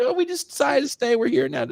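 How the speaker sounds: high, hurried fake American excuse; a Glasgow rapper covering his story in fake American; bad American accent. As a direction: ham up a Scot's clumsy American accent. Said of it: "the worst American accents ever".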